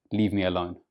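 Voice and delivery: "Leave me alone" low and falling; flat intonation. Shown as a demonstration. What flat intonation tells the listener, flat intonation. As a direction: drop "Leave me alone" without any lift. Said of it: "If you have a flat intonation".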